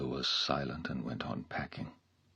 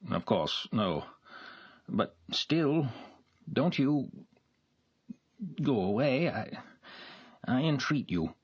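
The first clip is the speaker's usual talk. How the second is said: entreating gentleman; 8 semitones higher than usual. A narrator's reading. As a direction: beg her not to go. Nikolai voiced, entreating.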